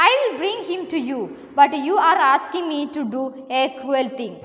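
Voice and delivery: slow, deliberate classroom story reading; story read-aloud. A narrator's reading. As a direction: read it out slowly, phrase by phrase. Reads the crocodile's reply. (സാവധാനം കഥ വായിച്ചു കേൾപ്പിക്കുന്നു)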